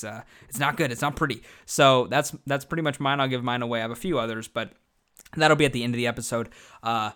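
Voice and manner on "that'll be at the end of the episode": quick, rushed delivery; talking fast. Real, not acted. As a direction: rattle it off in a hurry. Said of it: "I'm sorry I'm talking so, so fast".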